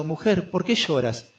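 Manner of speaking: loving question. Acted. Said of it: "una exhortación amorosa".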